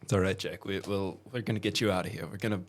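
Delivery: reassuring. Pretend. Comforting the hurt NPC.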